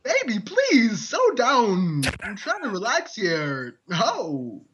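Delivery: lightly done Walken, slow drawn-out start; a hint of Walken pleading; Christopher Walken impression. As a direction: loose Walken cadence. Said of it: "I'm Christopher Walken".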